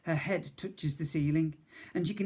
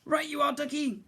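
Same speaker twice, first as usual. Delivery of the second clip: high, brisk motherly voice; cheery cook; 11 semitones higher than usual. Acted. Cook agrees to carry the boy, high and cheery. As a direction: chirp it with a can-do lift.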